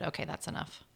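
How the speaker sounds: breathy whispered aside. Real, not acted. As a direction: drop to a whisper. Winding down after the list.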